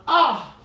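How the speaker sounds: sudden loud high cry of strain as the belly drops. Shown as a demonstration. Teacher showing the class the painful exit, loud yelp. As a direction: let out a loud pained yelp. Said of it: "Oof, it will feel painful".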